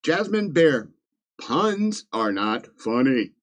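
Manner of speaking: slow, deliberate mock reprimand; stern joking telling-off; mock scolding. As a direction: scold the punster word by word. Mock scolds writer for pun.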